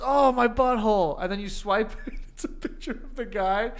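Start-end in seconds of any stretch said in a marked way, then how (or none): 0.0-1.2 slightly slow, higher mock moan; cartoon guy's wail. Cartoon guy answers the passer-by, mock wailing. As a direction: moan in pretend agony. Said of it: "And he goes".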